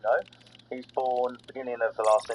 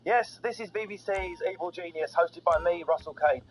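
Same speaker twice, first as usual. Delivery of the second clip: punchy, higher-pitched host intro; lively scripted radio opener; comedy show intro; 4 semitones higher than usual. Acted. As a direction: announce the show with showy energy.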